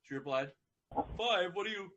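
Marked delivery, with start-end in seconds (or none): 1.2-1.9 higher, baffled question; ask, baffled; puzzled surprise. Acted. Dragon puzzled.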